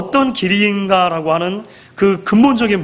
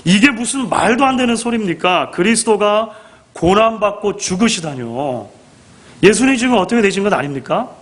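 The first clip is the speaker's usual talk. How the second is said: mildly heated mock protest, pitched up at first; acted protest; 3 semitones higher than usual. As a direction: object as an indignant disciple, with restraint. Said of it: "이렇게 항변하고 있는 것이죠".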